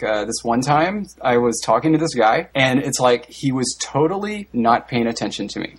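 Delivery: each phrase ending in a rise until the point; "this one time" lifts up, storytelling uptalk; demo of uptalk. Shown as a demonstration. Showing friends how rising intonation works in a story. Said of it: "everything ends with rising intonation".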